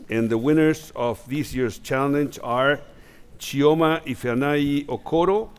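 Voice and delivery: slow, loud, rising reveal of names; winner announcement. Real, not acted. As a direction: build up and announce each winner.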